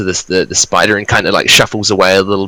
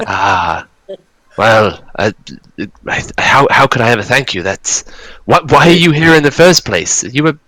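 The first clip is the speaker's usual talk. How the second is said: put-on northern Scottish accent, higher and bewildered; a puzzled dwarf in a northern Scottish accent; 5 semitones higher than usual. GM voices Gundren questioning the party in a northern Scottish accent. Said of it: "his northern Scottish accent".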